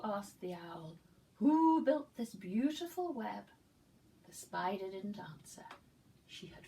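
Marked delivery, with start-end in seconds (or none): 1.4-3.5 higher, louder marvelling question; the owl wonders at the web, high and amazed; wondering owl voice. Acted. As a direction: ask in awe. Owl asks about web.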